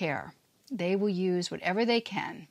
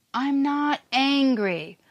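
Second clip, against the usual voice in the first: higher, slow, tight denial; defensive denial; 5 semitones higher, slower than usual. Retold or imitated. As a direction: insist slowly you're not angry. Abuser denying anger, acted.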